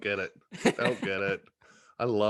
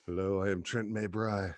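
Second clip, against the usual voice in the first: put-on French accent; 3 semitones lower, 5 dB quieter than usual. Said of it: "Yeah, French ac".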